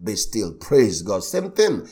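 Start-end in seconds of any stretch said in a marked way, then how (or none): 0.0-0.5 calm command. Retold or imitated. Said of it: "He didn't shout like them".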